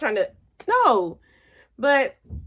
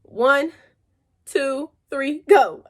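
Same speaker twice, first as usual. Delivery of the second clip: countdown; 3 semitones higher, 4 dB louder, much slower than usual. Retold or imitated. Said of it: "I said".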